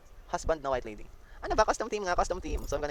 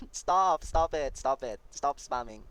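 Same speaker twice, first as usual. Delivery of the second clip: loud, firm stop it, fading down; scolding chat; 8 dB louder, much slower than usual. Real, not acted. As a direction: tell the spammers off.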